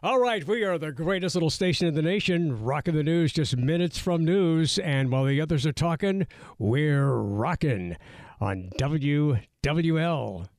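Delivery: rolling DJ announcer patter; old-time FM radio voice. Pretend. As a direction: oldies radio host hyping the station. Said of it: "Use your radio voice to announce an old school song".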